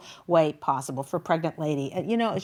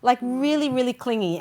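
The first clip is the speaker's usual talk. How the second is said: mock eager voice; 7 semitones higher than usual. Mimics friend's wish for freedom.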